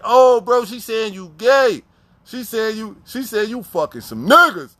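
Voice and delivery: slow, mocking tease to his cellmate; teasing. Inmate teasing his cellmate about the nurse, slow mocking tease. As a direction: drag it out like you're ribbing him. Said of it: "I'm like".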